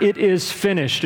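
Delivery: पूरी आवाज़ में ऊँचा, विजयी पुकार; crying out. Retold or imitated. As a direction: call it out high and ringing in victory. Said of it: "and he cries out".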